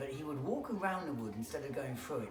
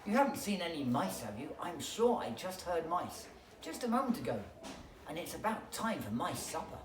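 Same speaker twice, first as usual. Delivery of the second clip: owl voice; 3 semitones higher than usual. Acted.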